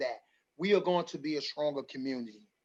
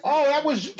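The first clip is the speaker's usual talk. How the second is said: laughing; 9 semitones higher than usual. Real, not acted. Host laughing about the niece's first snow drive. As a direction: laugh through the words.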